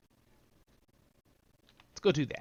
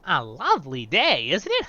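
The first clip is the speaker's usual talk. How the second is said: echoing the hobbit; 4 dB louder than usual. Retold or imitated. Repeating the hobbit's greeting in a light hobbit voice. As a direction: copy the game hobbit's sing-song. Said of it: "I'm actually doing the voices".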